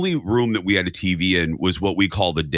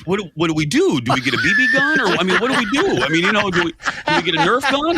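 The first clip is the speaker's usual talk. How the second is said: worked up; 9 semitones higher, faster than usual. Retold or imitated. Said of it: "I'm all worked up".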